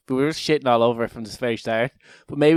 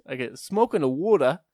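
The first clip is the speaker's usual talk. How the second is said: put-on Australian accent. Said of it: "solid Australian accent".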